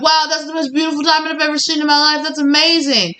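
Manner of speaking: high, fast, awestruck gush; excited wonder, voice lifted high; amazed delight. Retold or imitated. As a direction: gush over the most beautiful diamond. Partner awed by the diamond.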